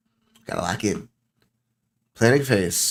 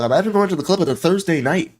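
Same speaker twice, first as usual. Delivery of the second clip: high-pitched, scandalised disbelief; incredulous outburst; 9 semitones higher, 4 dB louder, faster than usual. Real, not acted. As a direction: exclaim it in a raised, baffled pitch. Mock outrage at Thursday clubbers.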